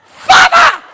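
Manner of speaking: very high, piercing mock shriek; shrill scream. Shown as a demonstration. Showing how the Cajun prayed, a shrill exaggerated scream. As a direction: scream the word way up high, full blast.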